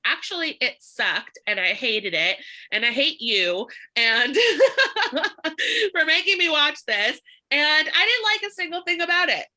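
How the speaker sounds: hammed-up whiny complaint, rising high; mock rude customer. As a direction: play the rude lead, mock-bitter.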